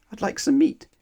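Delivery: unvoiced whisper. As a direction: breathe the words timidly. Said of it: "he whispered".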